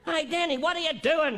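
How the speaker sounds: mild retold yell. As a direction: call out impatiently to a boy. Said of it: "she yells out".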